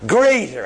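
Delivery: "Greater" hit hard and loud; emphatic GREATER. Shown as a demonstration. Preacher singling out a scripture word for the congregation, emphatic. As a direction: punch "Greater" as a word standing alone. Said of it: "I'm only emphasize that word".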